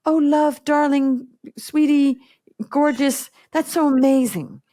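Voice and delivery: mock a coach who flatters every client; gushing sweet-talk coach. Mocking coaches who shower clients with pet names, sugary gush. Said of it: "some people want a coach that says".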